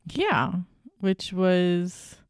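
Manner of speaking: words through a yawn. Real, not acted. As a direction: yawn while talking. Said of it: "but then I yawned".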